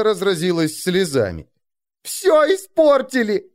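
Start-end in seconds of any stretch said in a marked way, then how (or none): 2.0-3.5 high, slow sobbing wail; girl sobbing over her ruin. A narrator's reading. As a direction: wail it through tears. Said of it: "рыдала она".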